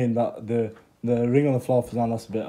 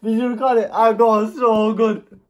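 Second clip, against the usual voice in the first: much higher, loud gleeful crowing; excited celebration; 12 semitones higher, 12 dB louder, slower than usual. Real, not acted. Friend crows over the prank on the wife, gleeful and loud. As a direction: crow over the prank like you won.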